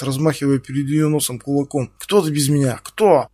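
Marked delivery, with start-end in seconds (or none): 2.0-3.3 a louder, rising angry jab; angry shout. Acted. Стас кричит на Ксюшу. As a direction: hammer the question at her.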